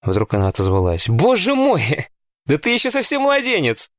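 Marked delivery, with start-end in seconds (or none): 1.1-3.9 mocking older sister voice; condescending mockery. A narrator's reading. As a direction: talk down to him like a baby, pitched way up. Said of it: "произнесла это таким тоном".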